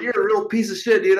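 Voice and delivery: pissed off, lightly re-enacted; retold anger. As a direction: replay a pissed-off telling-off. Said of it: "I got all pissed off".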